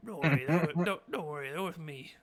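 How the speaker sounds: playground cool-guy act, mock casual. Goblin vouching for the party, mock cool. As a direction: toss it off like the coolest dude. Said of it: "he's, like, acting all cool".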